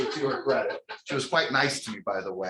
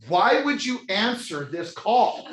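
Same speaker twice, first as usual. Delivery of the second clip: high, slow, emphatic reproach; exasperated demand; 8 semitones higher, 4 dB louder, slower than usual. Retold or imitated. Jailed husband to wife who took collect call, exasperated. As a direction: stretch out every word in disbelief.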